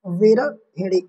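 विरहिणी slowly as "vi-ra-hi-ni"; teacher's slow, careful विरहिणी; correct form, syllabified. Shown as a demonstration. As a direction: sound each syllable of विरहिणी, including the "hi". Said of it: "इस प्रकार से लिखा जाता".

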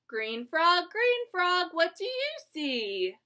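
singsong picture book reading; lilting read-aloud for little kids; reading to a toddler. Acted.

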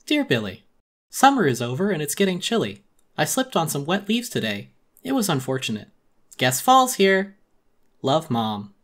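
mild motherly sing-song, slowing on the pun; mom's letter voice. Acted. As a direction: read the note like a cheery mom.

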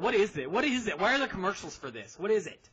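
puzzled outburst, playfully retold; baffled questioning. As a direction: re-enact baffled curiosity in quick questions. Acts out past baffled reaction to Nutella.

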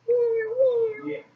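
high soft pretend meows; mock cat meow. Girl pretending her cat meows at viewers, soft mock meow. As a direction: meow softly like a kitten.

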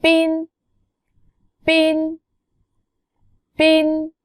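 핀 said high and clear; word demo. Shown as a demonstration. Teacher models 핀 meaning battery, high pitch. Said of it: "여기는 단어는 해보세요".

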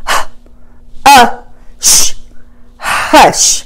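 h, uh, sh then hush breathed; whispered word. Shown as a demonstration. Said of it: "And the last one".

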